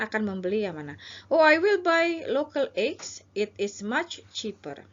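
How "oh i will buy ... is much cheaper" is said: slow and pleased, lightly acted; a shopper happily choosing the cheaper eggs; customer role. Shown as a demonstration. Teacher as shopper picking the local eggs, slowly. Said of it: "ini adalah Anda".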